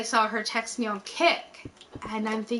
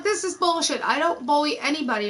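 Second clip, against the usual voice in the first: mildly indignant, higher-pitched denial; retold indignation; 5 semitones higher than usual. Woman retelling her denial of bullying, indignant. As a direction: protest your innocence in a retelling.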